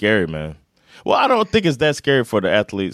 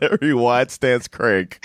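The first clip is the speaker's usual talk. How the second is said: laughing; 2 semitones higher, slower than usual. Real, not acted. Cracking up at the nickname.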